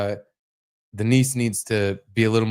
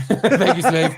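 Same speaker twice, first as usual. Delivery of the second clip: put-on haughty toddler voice; 8 semitones higher, 5 dB louder, slower than usual. Echoing toddler's imagined line.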